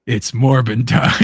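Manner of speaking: slow, dramatic villain line; mock Morbius catchphrase. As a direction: drag it out like a cheesy reveal. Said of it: "and there's Jared Leto".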